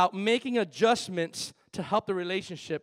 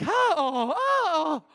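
excited higher oh oh oh; cheering fan; 7 semitones higher, 4 dB louder, much slower than usual. Retold or imitated. Preacher imitating football fans cheering, excited. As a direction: cheer like watching the game. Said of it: "my buddy Phil and we're like".

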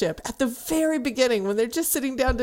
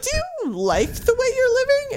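blunt question; 13 semitones higher than usual. Retold or imitated. Flat blunt girlfriend question.

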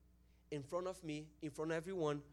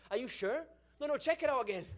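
high, loud doubting retort; mock disbelief; 8 semitones higher, 8 dB louder, faster than usual. Praying person doubting the healing, mock disbelief. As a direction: imitate someone insisting on a second check.

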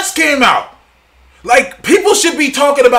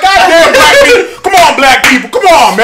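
1 mock exasperated plea; 5 semitones higher, 3 dB louder than usual. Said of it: "I'm like".

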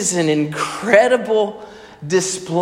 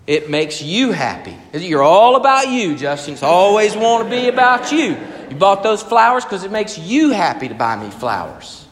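louder, higher, a touch of resentful nagging; mock accusing wife; 4 semitones higher, 4 dB louder than usual. Imagined wife scolding Justin over flowers, mildly accusing. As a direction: throw the accusation at him. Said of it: "She wouldn't say that".

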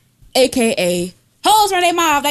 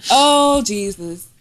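church shouting; 11 semitones higher than usual. Retold or imitated. Imitating gospel shouting in church.

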